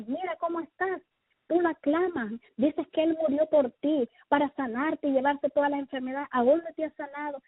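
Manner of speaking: a hint of a taunting devil; taunting enemy. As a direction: challenge and needle the believer, mildly mocking. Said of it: "me dijo el enemigo".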